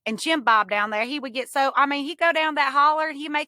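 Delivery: a hint of a moonshiner from the hollers; mock Appalachian twang; hillbilly accent. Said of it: "we would both talk in that accent".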